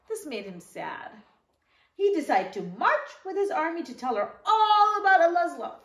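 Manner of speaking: put-on gentle storybook read-aloud for young listeners; teacher reading the story to the kids, in a storybook voice; reading to children. Once-upon-a-time storytelling.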